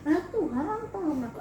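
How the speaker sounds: pleading to God, voice high and thin; tearful prayer. Retold or imitated. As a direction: beg God for help through tears. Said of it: "Aku nangis".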